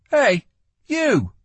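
high, loud, curt challenge. A narrator's reading. Lila addresses the guard blocking her, curt. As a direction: call him out curtly. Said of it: "she said curtly".

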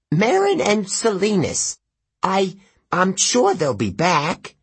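hide the panic badly; panicky satyr. A narrator's reading. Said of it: "the panic in his voice".

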